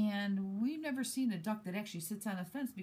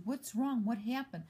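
higher-pitched upset questioning; mild retold yelling; 5 semitones higher than usual. Neighbour to driver who jumped the curb, mild retold yelling. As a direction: imitate an upset demand, lightly raised. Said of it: "I started yelling at her".

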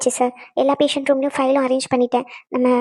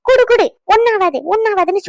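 higher-pitched mock of the old woman's nagging; 4 semitones higher than usual. Daughter throwing the old woman's words back at her, mocking. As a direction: lightly mimic an old woman insisting. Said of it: "சின்ன வயசுல இருந்து இந்த கிழவிதான்".

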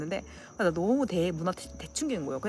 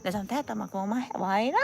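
plain-spoken Gyeongsang brush-off; blunt, un-cute. Acted. Showing what is not aegyo, blunt dialect. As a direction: say it matter-of-factly, no cuteness at all. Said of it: "이러는 건 애교가 절대 아니야".

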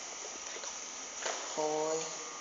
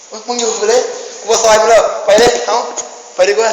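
panicked yell; 4 semitones higher, 9 dB louder than usual. Real, not acted. Yells fleeing the monster.

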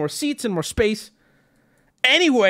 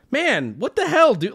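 half-joking protest; 2 semitones higher than usual. Retold or imitated. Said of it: "half joking, but still like".

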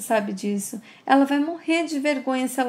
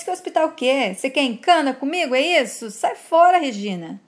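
indignant questions, then a louder order to get out; irritated dismissal; 3 semitones higher, 4 dB louder than usual. Acted. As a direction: send them away with acted irritation. Ismael snaps at Regina's hospital suggestion.

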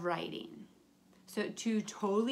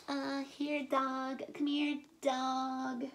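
calling the dog; 3 semitones higher, 3 dB quieter, much slower than usual. Acted. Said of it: "the daughter called the dog".

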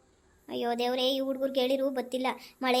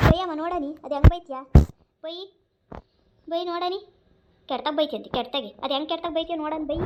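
put-on cheeky child dare; 3 semitones higher, 5 dB louder than usual. Child dares mother to scold.

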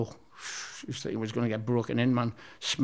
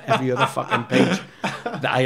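laughing; 3 dB louder than usual. Real, not acted. Laughing about front page news.

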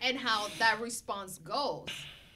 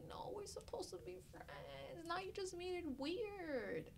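soft slow whisper; 8 semitones higher, 13 dB quieter than usual. Retold or imitated. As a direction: hush it like a secret. Whispered retold reply.

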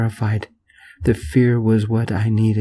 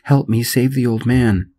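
panicked plea; 3 semitones higher than usual. Acted. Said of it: "I screamed in total panic mode".

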